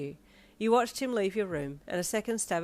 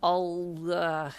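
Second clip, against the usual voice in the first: flustered; 5 dB louder, slower than usual. A narrator's reading. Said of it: "you flubbed".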